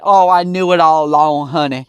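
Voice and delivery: mock gushing mother. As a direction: gush like a mother suddenly claiming her child. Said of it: "now she's all happy".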